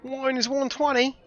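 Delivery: high, mimicking Australian voice; Australian accent. Player echoing a game barman's drink prices, mock Australian accent. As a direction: parrot it in a dodgy Australian accent. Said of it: "is this guy from Australia or something?".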